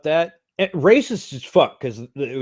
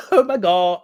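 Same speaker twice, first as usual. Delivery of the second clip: put-on Valley Girl accent; 8 semitones higher, 5 dB louder than usual. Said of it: "the Valley Girl accent".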